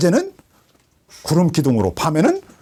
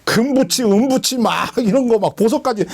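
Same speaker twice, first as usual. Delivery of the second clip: Moses exhorting; 4 semitones higher than usual. Retold or imitated. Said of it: "모세가 그들에게 말했다는 거야".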